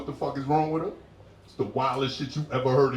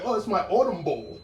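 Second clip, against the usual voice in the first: lightly voiced woman, higher pitched; woman explaining; 6 semitones higher than usual. Woman explains her decor to visitor, lightly higher voice.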